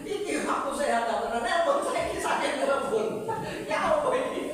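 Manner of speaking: high laughing disbelief. Real, not acted. Laughing retelling of odd call.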